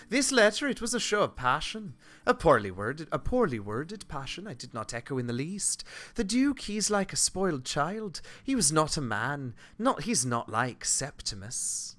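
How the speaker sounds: northern English character, dismissive of the suitor; northern British accent. Acted. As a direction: voice a scornful northerner. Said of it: "Northern, they're taller".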